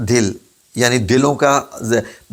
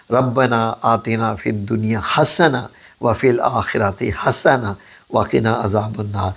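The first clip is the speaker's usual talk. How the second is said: recited prayer. Shown as a demonstration. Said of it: "دعا پڑھی ہوگی نا".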